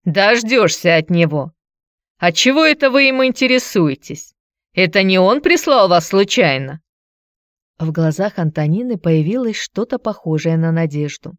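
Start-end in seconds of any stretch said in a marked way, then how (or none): 0.0-6.8 a touch of suspicious challenge; lightly voiced Antonina. Antonina asks whether her ex sent the visitor, mildly suspicious. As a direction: question the visitor with mild suspicion.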